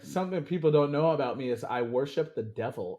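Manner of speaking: understated deadpan confession; straight-faced delivery, no reaction; deadpan quote. Retold or imitated. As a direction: quote it matter-of-factly, deadpan. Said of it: "with the deadpan face".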